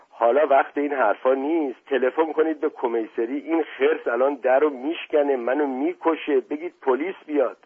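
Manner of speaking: frantic pleading. Acted. Beaten man begs uncle to call police, frantic pleading. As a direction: beg for help in mounting alarm.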